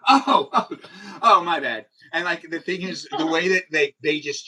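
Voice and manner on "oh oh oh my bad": high, loud startled oh, oh; hammed-up realization of a mistake; mock sudden apology. New York local suddenly apologizes to out-of-towner, high mock surprise. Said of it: "I'm like".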